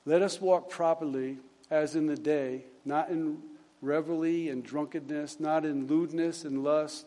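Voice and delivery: measured, subdued Bible reading; quiet recital from the page; scripture reading. Acted. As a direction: read the verse out softly and evenly. Reads the scripture passage.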